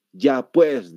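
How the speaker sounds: paceño "ya pues" with the S sounded; demonstrated La Paz speech; La Paz accent. Shown as a demonstration. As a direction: show how La Paz says "ya pues". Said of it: "Así".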